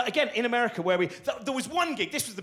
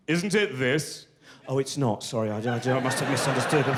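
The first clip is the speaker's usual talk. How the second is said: bluffing know-it-all; 6 semitones lower than usual. Retold or imitated. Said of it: "be able to go".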